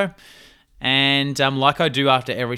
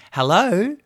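put-on higher, cautious old lady hello; nana answering; 10 semitones higher, 6 dB louder than usual. Grandson imitating his nana picking up the phone, higher hello. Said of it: "she's like".

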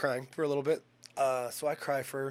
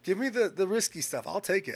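higher, louder give me the risky stuff; defiant demand; 6 semitones higher, 6 dB louder than usual. Retold or imitated. Patient demanding risky chemo from doctor, loud and defiant. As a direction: demand it like nothing scares you.

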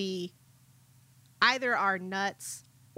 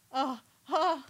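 shocked gasp, higher, breaking into laughter; mock gasp; 5 semitones higher than usual. Viewer shocked by a student's cheek, mock gasp. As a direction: gasp as if scandalized, half laughing.

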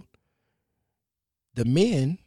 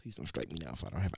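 normal talking voice

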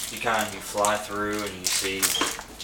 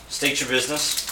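robot voice; 5 semitones higher than usual. Acted. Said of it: "a droid in a robotic voice".

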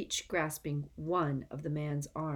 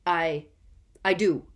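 breathless; 8 dB louder than usual. A narrator's reading. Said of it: "said Karkaroff breathlessly".

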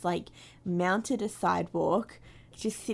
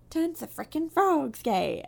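Alex Jones rant; 7 semitones higher, 4 dB louder than usual. Retold or imitated. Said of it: "conspiracy theorist".

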